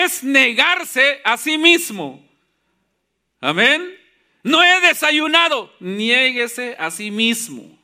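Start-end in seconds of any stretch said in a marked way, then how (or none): 4.4-5.7 slightly hammed-up excuse, pitched higher; mock excuse. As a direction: act out a reluctant churchgoer's protest. Preacher acts out congregants' excuses. (excusa fingida, en tono más agudo)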